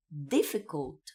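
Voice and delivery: difficult with a clean d; English hard d. Shown as a demonstration. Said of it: "Vai ser som de D".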